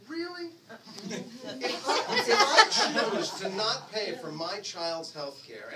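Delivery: laughing disbelief. Retold or imitated. Challenging the crew about health care, laughing retort. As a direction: push back through laughter.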